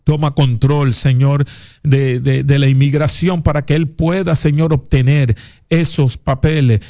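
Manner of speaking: earnest spoken prayer, repeating Señor; fervent prayer. Real, not acted. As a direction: pray over him with conviction. Pastor prays for callers on air.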